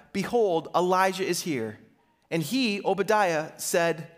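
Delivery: measured reading of a Bible passage; a calm church scripture read. Acted. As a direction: read the verses steadily aloud. Reads scripture before sermon.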